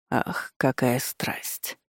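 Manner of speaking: slow, hushed whisper full of mockery; a slow, intimate whispered taunt; teasing whisper. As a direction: breathe it close to her ear. Suitor leans close, teasing.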